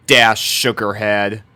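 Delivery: plain reading voice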